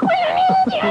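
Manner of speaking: very high falsetto through a laugh; squeezed high voice. Pretend. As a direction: pinch it up high while laughing. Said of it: "iniipit ka lang".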